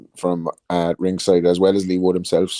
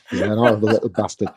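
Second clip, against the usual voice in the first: Paul Sykes impression. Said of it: "the Paul Sykes documentary".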